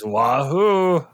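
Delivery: excited high Wahoo cry; Mario wahoo. Retold or imitated. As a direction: yell it like Mario jumping. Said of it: "he still says".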